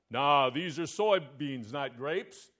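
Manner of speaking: slow, unbothered country drawl; a farmer who can't be bothered, slowly; slow deadpan farmer. Acted. Farmer voiced in a joke.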